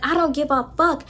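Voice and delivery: a hammed-up high whiny complaint; high mock rant. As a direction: play the upset friend in a high, strained voice. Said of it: "she was like".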